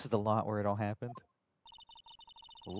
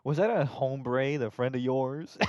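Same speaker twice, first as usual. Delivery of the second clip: slow, louder drawl on hombre; slow hombre take; 2 semitones higher, 5 dB louder, slower than usual. Acted. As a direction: stretch hombre out slowly. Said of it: "saying hombre is so funny".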